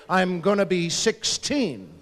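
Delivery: slow, stretched-out "sixteen"; imitating an excited teen's drawn-out claim; teen boast. Teen asked how old they are, slow boast.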